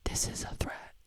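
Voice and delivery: hushed, voiceless whisper; very soft conspiratorial whisper. Pretend. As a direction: whisper a mock threat in secret. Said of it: "I'm whispering so YouTube won't hear me".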